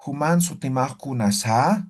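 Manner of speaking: Human sutimaj kunasa said level, no rising question tune; flat question. Shown as a demonstration. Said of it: "Preguntamos así". (pregunta llana sin entonación: Human sutimaj kunasa)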